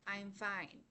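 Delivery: calm, sincere reassurance; calm and soft. Shown as a demonstration. Speaker showing a class a sincere answer, calm and soft. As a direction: say it gently, believably. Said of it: "If you say it calmly and softly".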